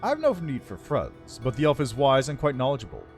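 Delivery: lightly voiced regal undead lich; haughty undead lord, measured and cool. Lich answers about the elf.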